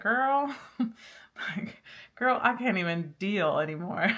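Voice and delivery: put-on sassy "girl" and a burst of loud exasperation; playful fed-up girlfriend voice; exasperated sass. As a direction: throw up your hands at the listener. Voicing exasperated female spirit energy.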